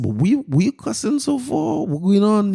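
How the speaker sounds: high-pitched exasperated dad, retold; stretched, high exasperated questioning; incredulous. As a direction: voice climbs high in mock disbelief. Retold father's incredulous questioning of son.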